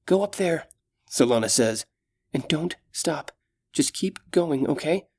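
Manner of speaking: put-on gentle, caring young elf; young elf woman. Solana urging girl.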